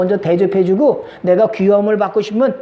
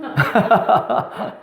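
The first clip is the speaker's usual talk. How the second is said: embarrassed laugh; 2 semitones lower, 3 dB quieter than usual. Real, not acted. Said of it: "닭살 돋아요?".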